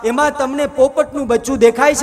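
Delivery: commanding lord. Acted. God quizzes Narad about the tree, firm and loud.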